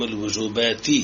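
carefully voiced kasra closing الوجوبات; kasra case ending. Shown as a demonstration. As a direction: sound the final i on الوجوبات. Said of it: "بالكسرة".

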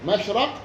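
مشرق with short a after the ر: mashraq; فتح الراء. Shown as a demonstration. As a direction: say مشرق with a fatha on the ر. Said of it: "والقياس فتحها فيهما". (مشرق بفتح الراء)

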